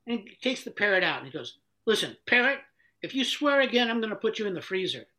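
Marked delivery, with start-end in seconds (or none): 1.9-5.1 raised, higher-pitched ultimatum; mild mock threat; stern warning. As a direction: warn a misbehaving pet, acted. Owner threatens the swearing parrot.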